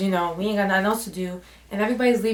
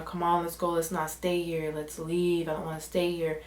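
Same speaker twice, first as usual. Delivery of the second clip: soft pleading; 3 semitones lower, 6 dB quieter than usual. Retold or imitated. Pleading to leave.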